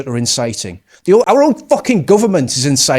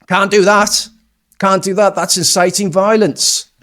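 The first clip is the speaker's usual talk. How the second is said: mock scolding authority; 5 semitones higher, 4 dB louder than usual. Mock scolding over arrested man's remark.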